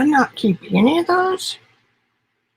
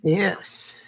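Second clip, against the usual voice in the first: whisper; 3 semitones lower, 5 dB quieter than usual. Real, not acted. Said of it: "whispered reveal".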